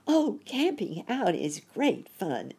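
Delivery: high, drawn-out delight; excited exclamation. A narrator's reading. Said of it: "exclaimed Sammy".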